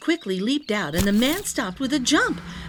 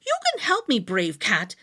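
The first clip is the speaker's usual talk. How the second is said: delighted; 2 semitones lower than usual. Acted. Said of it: "said the man with delight".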